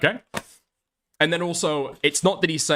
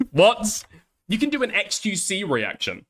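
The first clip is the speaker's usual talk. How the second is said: laughing disbelief; 4 semitones higher than usual. Real, not acted.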